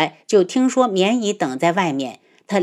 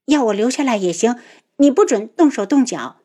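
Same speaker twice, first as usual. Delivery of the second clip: higher, sharper annoyed voice; 4 semitones higher than usual. Acted. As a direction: set the terms with irritation. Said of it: "愠怒道".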